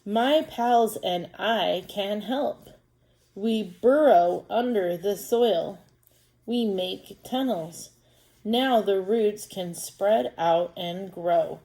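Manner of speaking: slow, careful read-aloud as a little earthworm; reading to children. Acted. Teacher reading an earthworm book to pupils, slow storytime voice. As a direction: read it slowly, word by word, for young readers.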